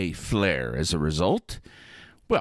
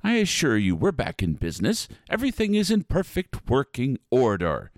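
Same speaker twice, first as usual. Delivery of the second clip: spooky ride narrator; 3 semitones higher than usual. Acted. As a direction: welcome the guests with flourish. Host greets riders.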